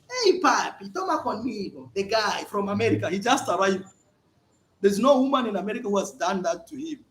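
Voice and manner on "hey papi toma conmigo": coaxing, higher. Retold or imitated. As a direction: lure him to drink. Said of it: "they come with the drink".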